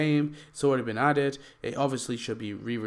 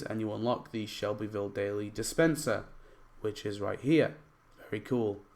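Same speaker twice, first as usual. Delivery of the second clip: hoarse, strained voice; a voice that is nearly gone; losing voice; 3 semitones lower, 4 dB quieter than usual. Real, not acted. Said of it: "I'm, like, losing my voice".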